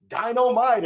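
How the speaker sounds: catchphrase impression, high and loud; loud, high-pitched catchphrase delivery. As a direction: punch it out as an exuberant catchphrase. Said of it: "as J J would say".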